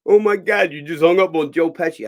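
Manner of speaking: loud, high, aghast exclamation; acted-out shock. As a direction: exclaim it in disbelief. Stallone shocked at the hung-up call.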